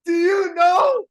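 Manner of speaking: high shrieking disbelief; screaming with excitement; ecstatic. Real, not acted. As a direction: squeal over a big surprise. Sees something amazing live.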